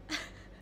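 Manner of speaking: soft, breathy giggle; quiet laughing fit. Real, not acted. Streamer botching own signature, soft giggle. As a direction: giggle helplessly under your breath.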